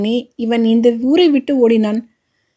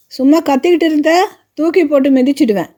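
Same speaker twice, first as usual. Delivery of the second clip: higher, faster threat; threatening shout; 5 semitones higher, faster than usual. Acted. Wife threatening her husband in a high, fast shout. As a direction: snap out the threat, pitched up.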